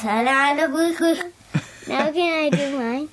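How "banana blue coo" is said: words sounded out in reverse; backwards speech. Shown as a demonstration. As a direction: say the phrase as if played backwards. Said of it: "turn it backwards and see what it sounds like".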